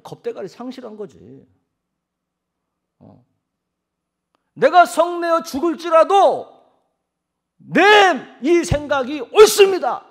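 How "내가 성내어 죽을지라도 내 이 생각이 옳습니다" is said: high, full-force stubborn yell; brazen, emphatic roar of self-justification; defiant shout. Acted. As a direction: hammer out the last words slowly at a shout. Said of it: "그렇게 말해요".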